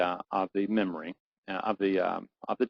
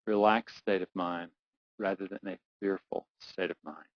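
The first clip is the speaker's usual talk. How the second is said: guided visualization; 3 dB quieter than usual. Acted. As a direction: lead them calmly through the memory.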